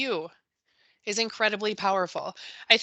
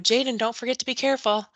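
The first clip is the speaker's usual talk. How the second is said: cautious teacher tone; 3 semitones higher, faster than usual. Retold or imitated. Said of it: "the teacher's tone changes a little".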